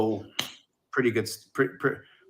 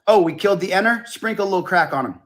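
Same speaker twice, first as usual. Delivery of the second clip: Chris Rock impression; 6 semitones higher, faster than usual. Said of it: "Chris Rock who said".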